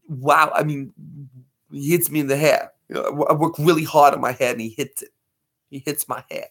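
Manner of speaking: a hint of a film star's wounded vanity; John Travolta. Complaining he hits my hair, light actor impression. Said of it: "John Travolta".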